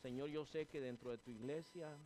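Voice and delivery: earnest pleading prayer, calling Señor Padre; closing prayer. Acted. Pastor praying to God for the church, fervent pleading prayer. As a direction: pray over the congregation, fervent and steady.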